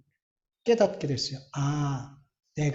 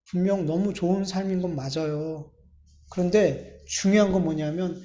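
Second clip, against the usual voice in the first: ordinary talk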